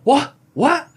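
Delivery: high, loud mock British accent; a failed attempt at a British accent, high and indignant; bad British accent. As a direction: squawk it in a botched British accent. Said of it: "I can't do a British accent".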